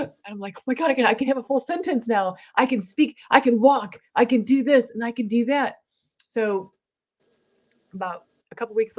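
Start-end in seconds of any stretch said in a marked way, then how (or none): 0.6-5.8 excited disbelief. Retold or imitated. Realizing she can speak again.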